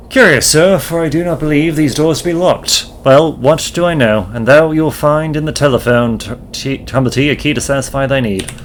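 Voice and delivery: a lightly voiced formal old gentleman; archaic landlord. Landlord explains the doors to the lodger, lightly formal. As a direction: answer with lofty thee-and-thou politeness.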